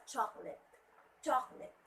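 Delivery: "chocolate" in two syllables, CHOK-lit; alternative pronunciation. Shown as a demonstration. Teacher offering another option, "chocolate" shortened to CHOK-lit. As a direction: drop the middle vowel of "chocolate". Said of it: "pronounce it as".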